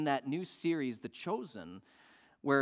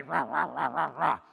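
mock grumbling. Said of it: "began to grumble".

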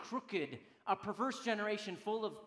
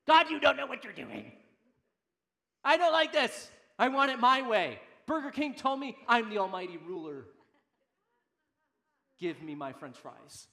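angry grumbling; 2 semitones higher, 9 dB louder than usual. Acted. Preacher acting out a complaint to God, loud grumbling. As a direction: rail at God like an entitled complainer. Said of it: "your Donald Duck grumbling moment".

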